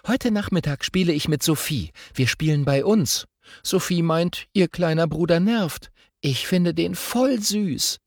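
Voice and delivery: a schoolgirl rattling on about art class; chatty girl voice. Acted. Girl chattering to her twin on the way to school, lively.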